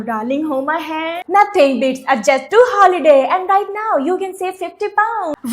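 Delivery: slow, stretched meme quote; imitating meme line. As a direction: drawl it like the viral ad. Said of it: "इस line को पूरा करो".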